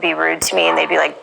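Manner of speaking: normal talking voice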